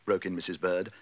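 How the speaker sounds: ordinary delivery, nothing marked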